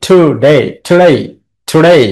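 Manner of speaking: each "today" stressed on "day"; weak "to", strong "day" in every "today"; stress on second syllable. Shown as a demonstration. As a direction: repeat "today", leaning on "day" each time. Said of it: "আর ডেটা হচ্ছে stress".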